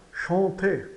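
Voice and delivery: chanter with silent R, ending in a closed "ê"; closed final E. Shown as a demonstration. Teacher models the verb ending, chanter with closed E. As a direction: say chanter as "shan-tê", nasal first vowel, no R. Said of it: "tem o som do E fechado".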